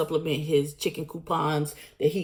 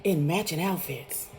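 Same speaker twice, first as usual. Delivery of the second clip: laughing; 3 semitones higher than usual. Real, not acted. Laughing retelling.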